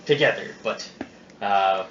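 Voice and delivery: gruff pirate captain voice; pirate accent. Acted. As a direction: growl it like an old sea captain. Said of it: "this is Captain Flint talking".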